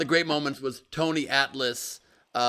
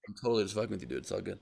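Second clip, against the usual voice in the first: casual; 5 semitones lower, 8 dB quieter, much faster than usual. Retold or imitated. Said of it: "He's like".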